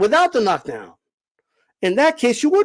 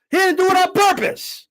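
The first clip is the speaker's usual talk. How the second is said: higher, whiny mock of the excuse; mocking echo; 8 semitones higher than usual. Host mocking a guest's excuse, whiny parroting voice. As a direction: parrot the excuse back in a silly voice.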